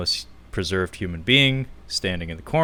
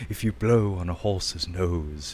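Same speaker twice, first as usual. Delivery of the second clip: droning android. Retold or imitated. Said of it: "he's droning on about".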